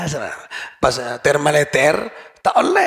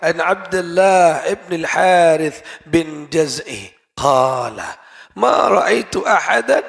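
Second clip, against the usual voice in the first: hadith recitation. Acted. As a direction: recite the isnad with reverence, drawing out the names. Recites hadith chain in Arabic.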